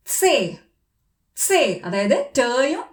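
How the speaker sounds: സേ said slowly as tse; German letter name. Shown as a demonstration. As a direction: draw out സേ with a ts start. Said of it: "പക്ഷെ എങ്ങനെയാണ്". (German സേ, ts ശബ്ദത്തോടെ)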